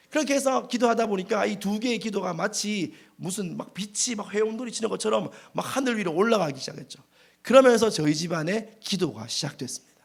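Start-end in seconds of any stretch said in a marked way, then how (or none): none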